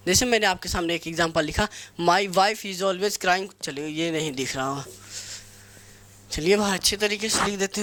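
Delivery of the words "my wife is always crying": very slow, word by word dictation. Shown as a demonstration. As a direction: dictate each word slowly to the class. Dictating sentence. (धीरे-धीरे बोलकर लिखवाना)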